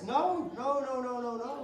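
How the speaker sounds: high, rapid string of refusals; mock denial. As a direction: protest in an exaggerated high voice. Acting out coy denial.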